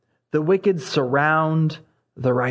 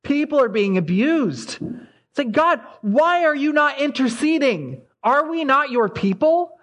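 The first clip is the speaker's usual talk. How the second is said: mock anguished shriek; 8 semitones higher than usual. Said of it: "It's a shrieking out to God".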